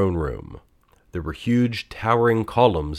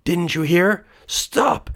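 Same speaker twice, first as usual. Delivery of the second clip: yelling; 11 semitones higher, slower than usual. A narrator's reading. Thief sinking in salt, yelling at millstone. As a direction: yell it in panic. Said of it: "he yelled again".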